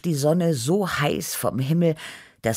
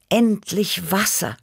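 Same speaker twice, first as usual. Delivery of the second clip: higher, joyful exclamation; excited, raised-pitch outburst; relieved excitement; 7 semitones higher than usual. A narrator's reading. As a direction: cry out at long-awaited relief. Parched hero spots a lake.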